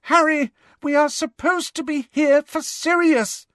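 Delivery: very high, tense plea; high-pitched, strained. A narrator's reading. Hermione reminds Harry why they came, high-pitched and strained. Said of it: "in a high-pitched, strained voice".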